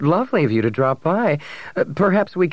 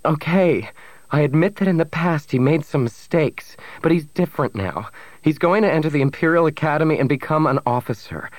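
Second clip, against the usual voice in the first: high, pleading defence; crying out; 7 semitones higher than usual. A narrator's reading. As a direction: plead his case, pitch up. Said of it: "Bria cried".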